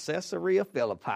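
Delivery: a lightly drawn Southern accent on "Caesarea Philippi". Shown as a demonstration. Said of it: "If you have a Southern accent".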